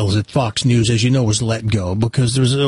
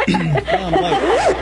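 mock panicked late. Comic late entrance, said twice.

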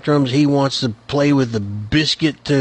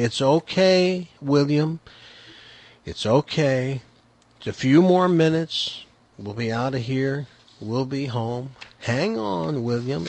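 put-on patient grandpa talking a toddler down; controlled calm voice; 3 dB quieter than usual. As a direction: keep a lid on it while calming the kid. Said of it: "is in a very controlled voice".

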